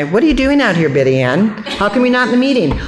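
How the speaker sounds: high, chirpy questioning; lightly voiced people asking in passing; nosy passers-by. Members passing her outside the meeting, high curious questions. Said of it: "I'd see people going by".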